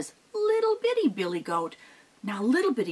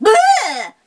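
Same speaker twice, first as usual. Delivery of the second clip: high, loud goat bleat; 13 semitones higher, 13 dB louder than usual. Acted. Billy goat bleating as it flees. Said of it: "billy goat went".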